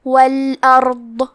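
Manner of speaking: "والارض" with a full, heavy dad, slow. Shown as a demonstration. Teacher shows the heavy dad, slow recitation. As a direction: give the dad full weight from the side of the tongue. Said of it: "یہ حرف کو موٹی آواز میں پڑھنا ہے".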